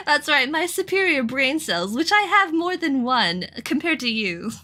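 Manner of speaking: posh voice. Acted. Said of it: "I'm going to give her a posh voice".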